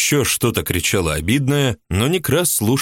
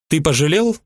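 a much higher woman's voice, resentful and indignant; jealous housewife; 9 semitones higher than usual. A narrator's reading. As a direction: play the jealous mistress complaining. Ulyba voiced high.

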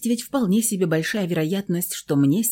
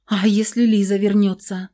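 nervous; 3 semitones higher, 4 dB louder than usual. Acted. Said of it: "занервничала я".

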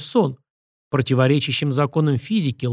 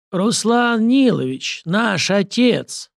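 corpse proclaims; 8 semitones higher, much slower than usual. A narrator's reading.

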